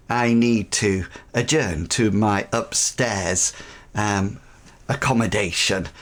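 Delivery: a hint of a sly, knowing aristocrat dropping to a near whisper at the end; suave Kristoff. Kristoff excuses himself, suggestive.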